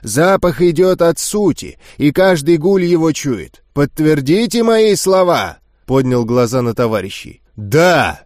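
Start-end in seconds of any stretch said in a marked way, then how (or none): 0.0-5.6 dry. Acted. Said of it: "сухо проговорил Горх". 7.5-8.2 barked yes. Acted. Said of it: "синхронно рявкнул зал".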